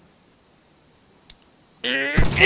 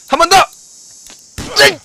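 ordinary talk

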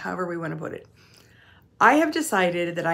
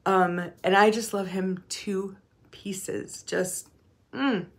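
whispered, slower, holding back tears; choked up; slower than usual. Real, not acted. Telling viewers about her grandson, tearful whisper. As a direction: let the love catch in your throat. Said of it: "now I'm gonna get emotional".

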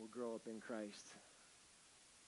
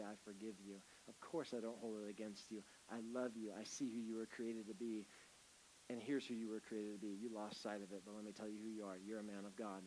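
tender forgiveness. Pretend. Speaking forgiveness to an offender.

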